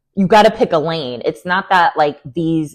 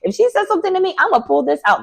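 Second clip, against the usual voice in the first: scheming plan voice; 8 semitones higher, faster than usual. Retold or imitated. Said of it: "I would go in there like".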